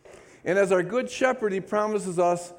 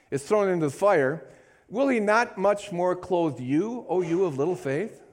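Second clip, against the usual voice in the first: fervent Bible reading; scripture reading; 2 semitones higher than usual. Acted. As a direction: read the passage as a sermon. Reads scripture with fervour.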